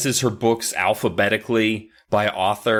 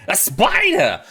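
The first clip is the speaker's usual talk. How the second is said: calling out; 8 semitones higher, 3 dB louder, slower than usual. Retold or imitated. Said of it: "Joe calls out".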